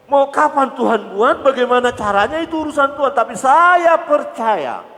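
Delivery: high, loud fervent preaching; preaching at full force. Acted. Preacher rousing the congregation, high and loud. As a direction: drive the faith home to the congregation.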